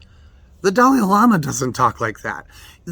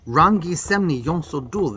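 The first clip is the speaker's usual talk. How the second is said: Tibetan recitation. Shown as a demonstration. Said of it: "one of the daily affirmations we say is".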